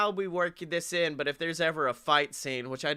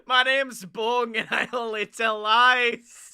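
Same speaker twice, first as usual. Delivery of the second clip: goofy twin voice; 6 semitones higher, 4 dB louder than usual. Acted. Voicing Bong character.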